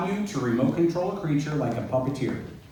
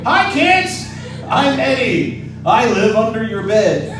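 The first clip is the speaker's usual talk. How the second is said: high, loud creepy-playful monster greeting; creepy playful under bed whisper; 11 semitones higher, 10 dB louder, slower than usual. Pretend. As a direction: spook the kids with a grin. Puppet Eddie introduces himself to kids.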